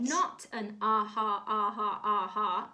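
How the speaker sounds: loud, emphatic protest; acted indignant correction; insistent wasp. A narrator's reading. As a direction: punch each "ha" to insist. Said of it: "insisted the wasp".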